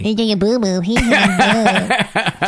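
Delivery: cooing sing-song with a laugh. Real, not acted. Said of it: "talking to your dog like it's a baby".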